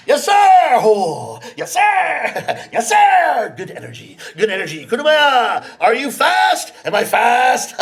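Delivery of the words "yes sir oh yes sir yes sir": eager reply. Acted. Rickshaw man answering eagerly.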